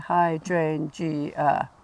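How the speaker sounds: very slow "hydrangea", DRAIN drawn out; hammed-up hy-DRAIN-gea, stretched; overdone stress on DRAIN. Shown as a demonstration. Teacher exaggerating the stress for a student: hy-DRAIN-gea. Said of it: "I was going over the top".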